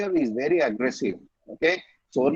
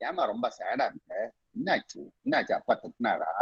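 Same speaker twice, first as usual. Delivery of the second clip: put-on fussing over child; 4 semitones lower, 8 dB quieter, much faster than usual. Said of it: "That's not the way you say".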